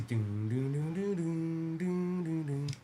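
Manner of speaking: soft sung-out "doon doon" noises; imitated background tune. Streamer imitating Primo explaining what a deed is, soft doon-doon noises. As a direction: lightly mimic a repeating little jingle.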